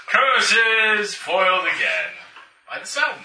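slow, hammy villain lament; mustache twirling villain. Acted. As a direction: curse the sun like a cartoon villain.

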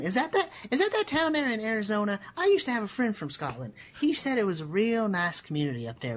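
high voice of a confused cop, happily off the mark; clueless police officer. Acted. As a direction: ramble on as a friendly, clueless officer. Officer mistakes Scotland for Arizona town.

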